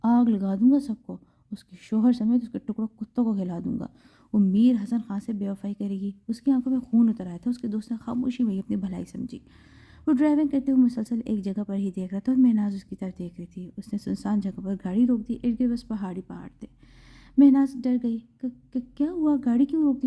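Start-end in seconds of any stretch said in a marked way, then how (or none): 0.0-6.1 angry threat. Acted. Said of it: "وہ غصے میں بولا". 18.4-20.1 stammering, higher scared question; frightened stammer. Acted. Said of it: "وہ ڈرتی ہوئی پوچھنے لگی".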